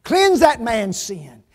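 loud, high plea of an advocate; Jesus. Acted. Advocate pleading to God for a sinner, loud impassioned preaching. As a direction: plead the case forcefully before the judge. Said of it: "he says".

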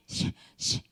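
hissy mock sobs, no voice; imitated crying. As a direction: imitate a child's sobbing in short breathy bursts. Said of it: "하면서 막 울더라고요". (흑흑 우는 아이 흉내)

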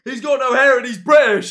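loud, high taunting shout; mocking yell. Real, not acted. Streamer taunting a chatter, loud jeer.

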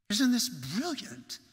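slow, marvelling mock-British accent; imitated British accent, delighted; pronounced British accent. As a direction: draw it out in a put-on British accent. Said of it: "he had this pronounced accent".

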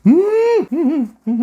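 humming while chewing; muffled hum, mouth closed; mouth full of noodles. Real, not acted. Seen 2: Slurped noodles at -1.0; head bowed over bowl, mouth likely full.

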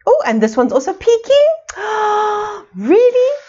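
mock surprise. Mock surprise at peeking page.

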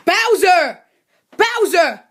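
sharp call to wake someone; insistent wake-up call. Acted. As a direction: call the name across a room. Calling to wake a sleeper.

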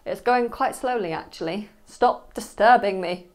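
annoyed busy worker. Acted. Busy student shooing away the teacher, mildly irritated. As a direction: brush them off, half joking. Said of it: "I'll say".

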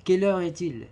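high, loud asking tune; questioning tone. Shown as a demonstration. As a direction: ask it clearly as a question. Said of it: "phrase interrogative". (ton interrogatif marqué)

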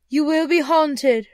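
high, loud, slow pronouncement; ominous ghost. Acted. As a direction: announce doom slowly as a spectre. Ghost warns Scrooge.

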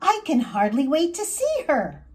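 bubbling over to see her; laughing excitement before meeting her friend; excited. Acted. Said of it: "I'm so excited".

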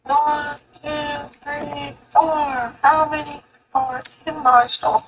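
pinched nasal meme voice. Retold or imitated. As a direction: say it through the nose. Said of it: "a nasal tone voice".

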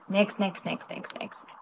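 fading to a whisper. Real, not acted. Streamer trailing off while skipping songs, fading to a whisper. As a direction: let each "next" fade away.

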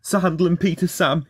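high, frightened whimper. A narrator's reading. Rheneas, trapped, thinks of his friends, whimpering. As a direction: plead in a high, scared voice. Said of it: "he whimpered".

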